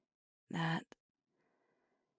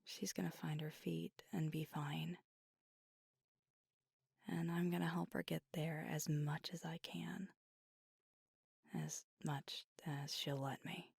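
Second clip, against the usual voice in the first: hushed and caring, trailing softer; tender resolve; 6 dB quieter than usual. Acted. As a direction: quietly promise to look after her. Tender resolve about helping her.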